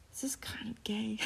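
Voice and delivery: unvoiced giggly aside; whispered aside. Real, not acted. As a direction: whisper it like a secret. Aside while reading.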